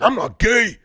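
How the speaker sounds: high, loud macho protest; aggro guy. Retold or imitated. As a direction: bark it like a defensive bro. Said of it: "one of those guys that would be like".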